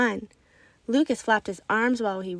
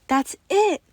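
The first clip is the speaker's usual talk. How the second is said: higher, louder cry of realization; yelling; 7 semitones higher, 5 dB louder than usual. Acted. Child yells out as she finally understands. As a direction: shout it as the answer clicks. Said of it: "I yelled".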